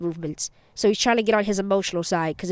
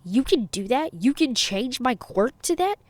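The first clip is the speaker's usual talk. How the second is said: astonished rising question; shocked; 4 semitones higher, slower than usual. A narrator's reading. Kaminari learns his quirk can change, shocked. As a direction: ask it in mild disbelief, pitch climbing. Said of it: "in a moment of shock".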